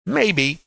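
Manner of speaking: "Maybe" pitched high, then falling; stress on maybe. Real, not acted. Trader reminding students nothing is certain, emphatic "Maybe". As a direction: hit "Maybe" high as a word on its own. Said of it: "I have to stress the word maybe".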